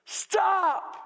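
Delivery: high, forceful yell of warning; Jesus. Acted. Jesus warning those who judge God's word, yelling. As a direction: yell it twice, with a gap between. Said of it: "He's saying to you".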